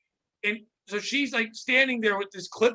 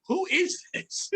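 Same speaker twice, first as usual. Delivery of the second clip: mock yell; 8 semitones higher, much slower than usual. Yelling into walkie at stranger.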